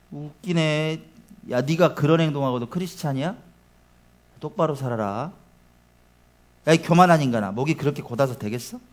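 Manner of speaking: muttered mockery of a critic; scornful taunting. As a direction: belittle them with low scorn. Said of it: "이런 바람이죠".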